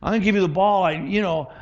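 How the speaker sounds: high-pitched mock coach tearing down a player; discouraging coach. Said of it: "could you imagine a coach says like this".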